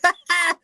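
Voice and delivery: a sudden shrieking high cackle like a caged monkey; high hooting laugh aping the zoo monkeys; mocking monkey laugh. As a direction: burst out in a mock monkey screech. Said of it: "and they laugh, and they're like".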